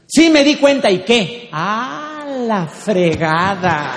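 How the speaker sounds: loud, high retort, drawn-out curse; husband still shouting. Acted. Husband snapping back at his wife, angry shout. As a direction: yell back defiantly, then stretch the curse. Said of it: "sigue en su papel".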